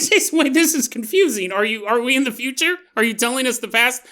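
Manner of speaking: high, bewildered interruption; a listener lost in the timeline, confused. Acted. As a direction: cut in, baffled and puzzled.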